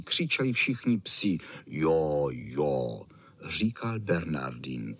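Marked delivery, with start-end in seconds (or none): 1.7-3.0 much lower, heavy Saint Bernard voice; big slow dog. A narrator's reading. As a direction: rumble it like a huge lazy dog.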